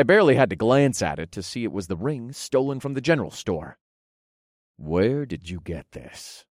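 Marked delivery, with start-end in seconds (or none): 4.8-6.5 hard tone. Acted. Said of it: "I questioned in a hard tone".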